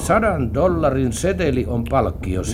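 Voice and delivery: slow, deliberate letter reading; reading a letter aloud. Acted. Man reads a found letter to partner, deliberately. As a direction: read it out word by word, slowly. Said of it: "Katsotaanpas, mitä siinä sanotaan".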